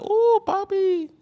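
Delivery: very high, slow, swooning woman's voice. Retold or imitated. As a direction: coo it like a smitten girl. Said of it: "They gonna be like".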